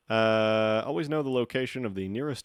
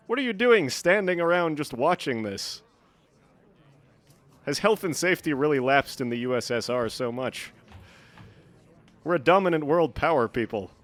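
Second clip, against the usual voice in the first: louder, higher mock outraged comrade; mock Soviet boss; 4 semitones higher, 4 dB louder than usual. Gamer scolding game workers as a mock Soviet official, outraged.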